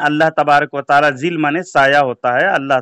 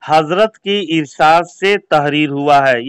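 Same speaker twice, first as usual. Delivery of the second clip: slow and careful; slower than usual. Shown as a demonstration. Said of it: "धीरे धीरे इबारत को मुकम्मल पढ़े".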